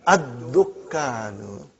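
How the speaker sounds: "Ad-dukkanu" very slow, syllable by syllable; careful pronunciation. Shown as a demonstration. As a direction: draw out "Ad-dukkanu", holding the double k. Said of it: "how do you say".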